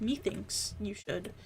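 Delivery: slow, mock-formal "Methinks"; lightly ape a pompous professor, slowly. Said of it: "he says".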